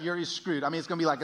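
usual speaking voice

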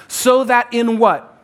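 loud, slow call for the congregation to answer; calling out to the crowd. Real, not acted. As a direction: throw the question out for the room to shout back. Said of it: "you shout the words out".

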